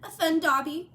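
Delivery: choked-up, high and loud. A narrator's reading. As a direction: force it out through tears. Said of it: "choked the elf".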